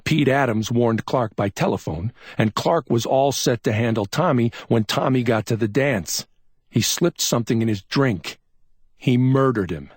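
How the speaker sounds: a hint of cold certainty; grim detective. A narrator's reading. McMain tells Chuck how Tommy died, grim.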